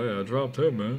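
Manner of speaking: loud, hyped-up boast; excited shouting. Real, not acted. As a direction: yell it out proudly. Hyped boasting over knockout.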